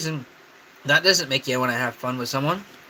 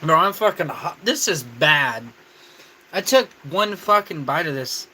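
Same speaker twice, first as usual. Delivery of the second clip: mouth full of hot food. Real, not acted. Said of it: "My mouth is still on fire".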